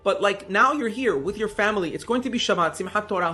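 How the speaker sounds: a worried mother begging her daughter to stay; mother pleading with her daughter not to leave; distraught mother. Retold or imitated. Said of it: "Her mother is distraught".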